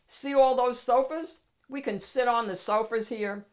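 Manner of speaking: dog boasting to his owner about the club; proud dog host. Acted. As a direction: show off your place like a proud host.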